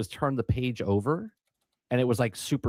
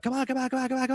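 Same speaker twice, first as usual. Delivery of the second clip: mock frantic, panicked urging, higher; 12 semitones higher than usual. Retelling an escape room when the others were rushing: imitating someone freaking out. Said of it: "they're freaking out".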